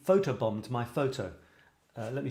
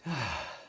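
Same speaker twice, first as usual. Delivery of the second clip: sigh. Shown as a demonstration. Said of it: "say it with my eyes closed".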